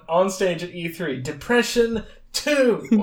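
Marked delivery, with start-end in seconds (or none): 1.2-3.0 announcer voice. Pretend. Mock game reveal on stage.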